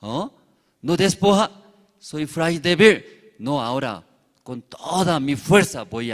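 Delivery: a cloud getting cross, with loud bursts; frustrated outbursts, now with full force; angry cloud. Acted. Cloud angry that the passenger keeps his jacket, loud frustration. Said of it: "la nube se enojó".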